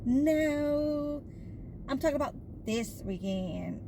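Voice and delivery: imitating her daughter. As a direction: set mom straight like the college kid. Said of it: "And this is how she talks".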